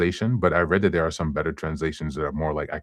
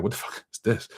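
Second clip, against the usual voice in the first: mock disbelief, higher and voice changed; incredulous; 5 semitones higher, 3 dB quieter than usual. To her parents who left, mock stunned disbelief. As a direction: retell your own stunned reaction to being left. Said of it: "And I'm just like".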